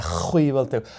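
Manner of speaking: emphatic throaty ch in "Ceathail"; phrase demo. Shown as a demonstration. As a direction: lean hard on the ch of "Ceathail", drawn out. Showing the broad ch in the phrase.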